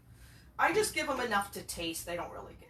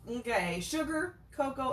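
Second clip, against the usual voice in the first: ordinary talk, nothing marked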